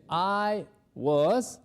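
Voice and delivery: lightly voiced photo man; a hint of another man; man in the slide answering, lightly voiced. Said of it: "el señor de la foto pues nos dice".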